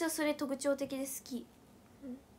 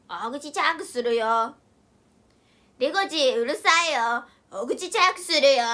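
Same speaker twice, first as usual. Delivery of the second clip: scolding friend; 3 semitones lower, 8 dB louder than usual. Retold or imitated. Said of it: "言われる".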